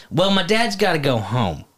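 lightly voiced Tennessee kid; little Tennessee boy. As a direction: imitate a small boy's Tennessee twang. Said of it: "he sounds like a little Tennessee boy".

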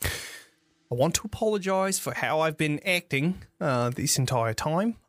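lightly voiced effusive tavern patron; amazed, apologetic patron. Game master voices Rictavio apologizing.

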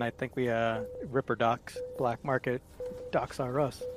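softly voiced aside; quiet in-game confidence, not a true whisper; mock whisper. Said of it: "I'm gonna whisper to Raven".

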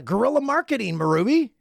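high excited pitch. Retold or imitated. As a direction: sell it eagerly. Excited protest to wife.

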